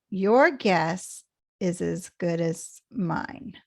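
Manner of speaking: slow, YOUR GUESS stressed, then dropping off. Shown as a demonstration. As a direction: spell out YOUR GUESS slowly, let MINE fall. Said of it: "it just drops off here".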